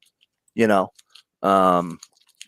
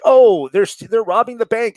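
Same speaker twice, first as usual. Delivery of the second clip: high, louder comic townsfolk; mock alarm; 11 semitones higher, 5 dB louder than usual. Host voices officials summoning Batman to a robbery, mock alarm. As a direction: play a panicky official calling for help. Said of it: "they're like".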